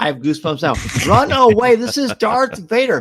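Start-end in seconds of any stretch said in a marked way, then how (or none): 1.1-3.0 screaming, higher. Retelling screaming at the screen at a premiere: retelling own screaming. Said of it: "literally screaming at the screen".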